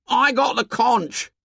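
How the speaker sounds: put-on high, drawn-out boyish protest; slow, emphatic squabbling child; indignant claim. A narrator's reading. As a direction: insist on your right to speak. Boys quarrel over the conch.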